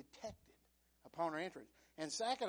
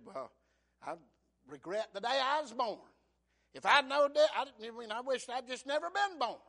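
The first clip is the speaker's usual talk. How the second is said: loud, higher anguished cry; Job's lament; 5 semitones higher, 12 dB louder than usual. Acted. Preacher voicing Job cursing his birth, loud cry. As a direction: wail it out.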